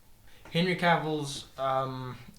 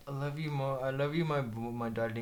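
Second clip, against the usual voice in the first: put-on child voice; 5 semitones lower, 8 dB quieter than usual. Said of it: "your child's like".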